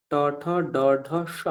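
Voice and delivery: ট, ঠ, ড, ঢ, স with the tongue curled to the roof; retroflex pronunciation. Shown as a demonstration. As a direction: sound out ট, ঠ, ড, ঢ and retroflex স. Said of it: "মূর্ধন্য সকার মূর্ধা থেকে উচ্চারণ হয়". (মূর্ধন্য উচ্চারণ)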